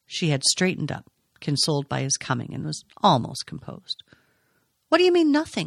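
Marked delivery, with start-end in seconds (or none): 4.9-5.7 very high-pitched, insistent, demanding tone. A man presses a woman who has just said it is nothing, demanding. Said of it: "he demanded".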